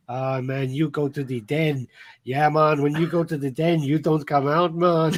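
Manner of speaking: mock Jamaican guard, laid-back and lightly voiced; bad Jamaican accent. Retelling a film's guards capturing someone, in a bad Jamaican accent. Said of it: "a really bad Jamaican accent".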